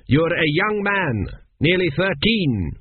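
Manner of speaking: a lightly voiced vague father, groping for words; vague king. A narrator's reading. Vague Pharaoh slowly quizzing his son, hesitant.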